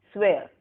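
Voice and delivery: "swear" said carefully as a lone word; model pronunciation. Shown as a demonstration. Teacher has students repeat the word, careful model "swear". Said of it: "Speak the words after me".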